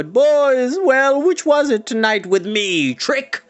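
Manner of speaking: booming farewell question; final shout. Acted. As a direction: call after them teasingly. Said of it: "a final shout from Mountjoy".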